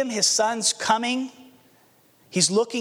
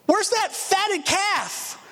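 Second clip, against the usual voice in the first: eager father; 10 semitones higher, much slower than usual. Acted. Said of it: "And he says".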